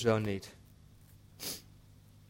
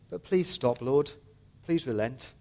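pleading. Acted. Prophet asking God to relent, subsiding plea. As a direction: beg gently, letting the pitch fall away. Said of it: "he's pleading with God".

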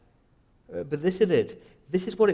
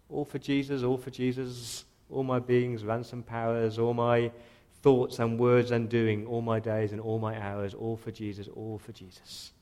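hymn recitation; 2 semitones lower than usual. Acted.

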